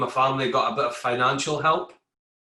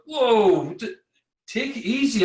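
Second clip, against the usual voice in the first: mock workmate warning; 8 semitones higher, 4 dB louder than usual. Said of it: "and guys are like".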